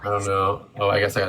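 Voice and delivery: unvoiced muttered aside; whisper. Real, not acted. Streamer whispering to herself before the call. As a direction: whisper it under your breath.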